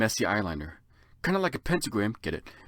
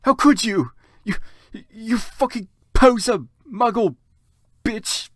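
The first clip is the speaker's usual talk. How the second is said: furious insults; 11 semitones higher, 9 dB louder than usual. Acted. Draco's angry outburst continuing.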